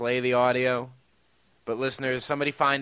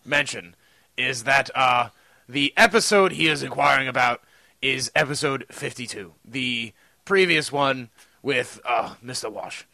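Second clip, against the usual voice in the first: put-on posh British accent. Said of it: "upper class to posh".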